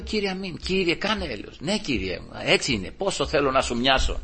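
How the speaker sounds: soft, subdued plea; humbled prayer. Retold or imitated. Preacher answers the Lord asking for mercy, humbled prayer. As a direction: pray it quietly in surrender.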